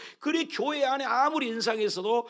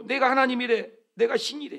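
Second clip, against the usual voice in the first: proud boaster; 4 semitones higher, 3 dB louder than usual. Retold or imitated. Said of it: "아, 여기 보세요".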